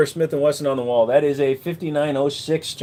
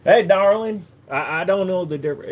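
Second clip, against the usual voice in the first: Texas drawl; 5 semitones higher than usual. Shown as a demonstration. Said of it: "Texas is just kind of a slow talk".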